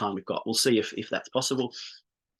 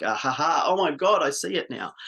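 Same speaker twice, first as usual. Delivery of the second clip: a client's gasp of realisation, pitch jumping on oh my God; mock delighted aha, loudest at oh my God; imitated eureka moment; 4 semitones higher than usual. Coach voicing a client who finally sees it, excited.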